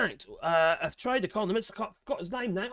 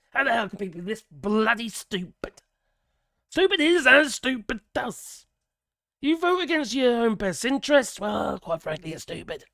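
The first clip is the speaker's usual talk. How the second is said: worked-up, exasperated rant; angry excitement. Real, not acted. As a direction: get riled up and indignant. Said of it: "kind of an angry excitement".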